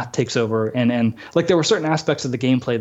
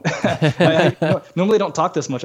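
laughing; 4 semitones higher than usual. Real, not acted. Laughing at own talkativeness.

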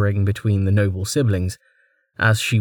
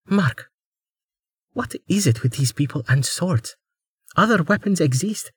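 character voice; 8 semitones higher than usual. Acted.

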